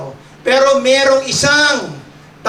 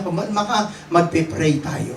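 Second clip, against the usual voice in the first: calming; 4 semitones lower, 4 dB quieter than usual. Retold or imitated. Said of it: "inasabi ko sa kanya".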